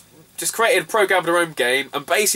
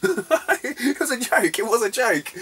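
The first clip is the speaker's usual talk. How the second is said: slow, laughing through it; 9 semitones higher, slower than usual. Real, not acted. Recalling the taxi joke, laughing. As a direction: laugh the words out.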